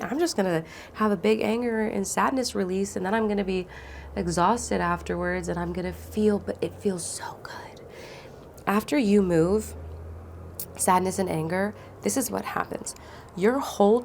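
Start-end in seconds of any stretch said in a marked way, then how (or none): 6.4-7.8 soft relief. Real, not acted. Describing relief after release.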